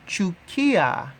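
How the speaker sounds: normal talking voice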